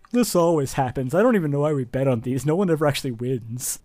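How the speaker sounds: mild resigned grumble; sighing complaint. Acted. Losing bettor complains about the undecided fight, resigned. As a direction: sigh through it like a let-down gambler. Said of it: "money just sigh".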